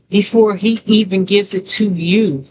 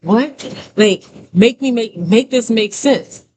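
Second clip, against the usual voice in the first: retold bafflement; 3 semitones higher, slower than usual. Retelling her reply to God, mildly baffled. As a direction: act out mild disbelief, pitch climbing. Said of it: "I'm just like".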